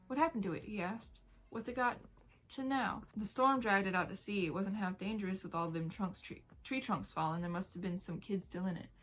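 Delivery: steady read-aloud storytelling voice; story narration. Acted. Vlogger reading a novel aloud to viewers, measured narration.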